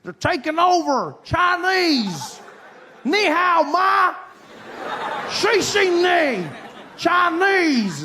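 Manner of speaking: high, loud mock alarm; hammed-up panicked advocate. Comic mimicking people urging everyone to learn Chinese, mock-frantic shout. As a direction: stretch it into a comic high holler. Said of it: "I see people say".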